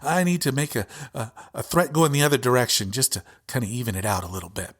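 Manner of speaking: fast, sarcastic imitation of a scheming right-winger; lightly voiced sneaky plotter, quick and sarcastic; mock right-winger. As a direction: rattle it off as a mocking impression. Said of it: "It's like".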